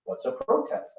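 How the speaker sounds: put-on high, light little-boy voice asking; child's question. Father voicing his son asking about the protest, high and curious. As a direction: play the curious four-year-old.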